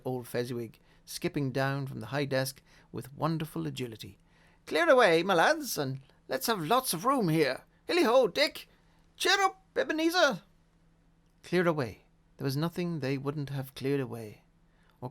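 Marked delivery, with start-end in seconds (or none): 4.7-5.2 high, loud jovial call; jolly shout. A narrator's reading. Fezziwig shouts order. 5.2-10.4 rich, fat, jolly call, louder; jovial voice. A narrator's reading. Fezziwig calling out.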